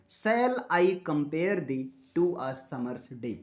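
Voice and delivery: "Shall I compare thee to a summer's day" slowly, beat by beat; syllable by syllable. Shown as a demonstration. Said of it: "syllable का मतलब एक झटके में".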